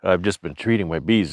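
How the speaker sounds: breathless through a respirator; short of breath, talking between breaths. Real, not acted. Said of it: "This is why I sound like I'm out of breath".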